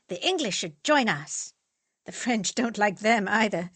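loud, forceful political rant; heated rant. Acted. Fritz lecturing friends, heated about the French. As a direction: push the point hard and loud.

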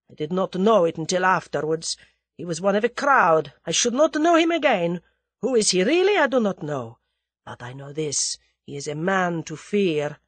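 lightly voiced Russian, wary confession; understated fearful Russian. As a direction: confide a dread of this man.

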